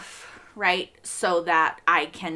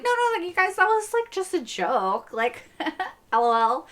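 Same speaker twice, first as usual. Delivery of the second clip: high, joking protest with a laugh; mock backpedalling; 9 semitones higher than usual. Fan mimicking the suspect excusing himself, mock backpedalling. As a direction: backpedal lightly, imitating someone passing it off as a joke. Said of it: "And then he's like".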